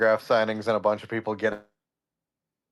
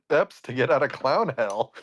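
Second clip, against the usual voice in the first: higher clown voice near Mad Hatter; Chuckles the clown; 4 semitones higher than usual. Acted. Clown excuses himself for heavy breathing, clownish. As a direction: lightly put on a high clown voice. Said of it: "Chuckles' voice is literally just, like, a step away".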